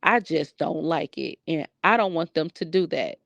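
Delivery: lightly imitated child, measured and firm; grandson standing his ground. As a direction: quote a little boy calmly holding firm. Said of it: "This little boy said".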